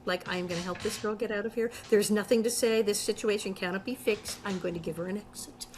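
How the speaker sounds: low, soft deadpan; calmly steer her out, giving nothing away. Acted. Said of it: "the way she deadpans it".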